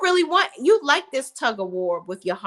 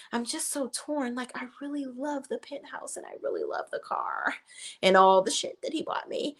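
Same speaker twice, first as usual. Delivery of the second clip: softer, whiny voice for Andy; mock torn whimper; 3 semitones higher, 6 dB quieter than usual. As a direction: play Andy as sulky and torn.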